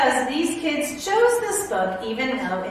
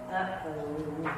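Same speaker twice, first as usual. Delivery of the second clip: mock worry; 8 semitones lower, 10 dB quieter than usual. Reader dreading what comes next.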